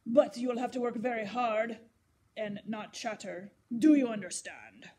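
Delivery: put-on gruff painter warning the girl. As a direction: lay down the rules gruffly. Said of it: "A gruff voice interrupted then".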